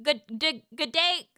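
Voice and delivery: tentative Australian greeting; halting go at Australian; Australian accent attempt. Shown as a demonstration. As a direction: feel out the Australian vowels. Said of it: "How to speak Australian accent".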